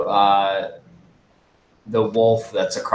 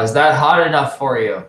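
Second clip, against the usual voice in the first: raised, higher taunting call; 4 semitones higher, 6 dB louder than usual. Acted. Player's character calls out to the burning wolf, calling out. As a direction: call it out loud across a battlefield. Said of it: "T-Hole calls out".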